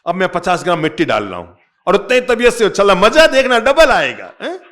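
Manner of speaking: preacher shouting the crowd on; rousing shout. Real, not acted. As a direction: hype the hall like a cheerleader. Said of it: "दोबारा करो".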